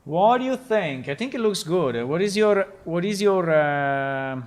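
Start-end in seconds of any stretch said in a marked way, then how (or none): 0.0-1.1 louder and higher, to the audience; louder question. Real, not acted. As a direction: call it out to the viewers.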